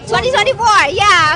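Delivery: tipsy, a little loud and loose. Real, not acted. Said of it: "I'm a bit tipsy".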